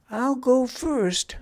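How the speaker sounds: put-on high-pitched, keen child; eager volunteering. A narrator's reading. Pun volunteers for the first lookout turn, eager. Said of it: "volunteered Pun".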